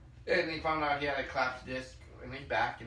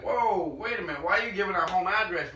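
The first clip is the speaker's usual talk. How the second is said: alarmed; 5 semitones higher, 7 dB louder than usual. Retold or imitated. Husband alarmed at wife giving address.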